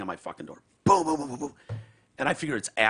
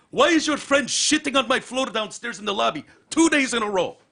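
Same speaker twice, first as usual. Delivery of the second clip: angry hotel manager; 11 semitones higher, 7 dB louder than usual. Retold or imitated. Manager accuses.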